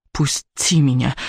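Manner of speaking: slow, understated angry demand; mild narrated yell, drawn out; angry yell, restrained. A narrator's reading. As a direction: order him off with contained spite. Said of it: "злобно заорала Элис".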